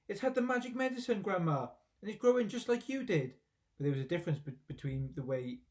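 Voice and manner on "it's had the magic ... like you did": excited shout. A narrator's reading. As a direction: shout it while hopping about.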